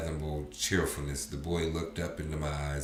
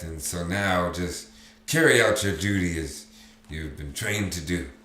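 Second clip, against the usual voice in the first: steeling himself; 2 semitones higher, 6 dB louder than usual. Acted. Drunk father steeling himself in memory.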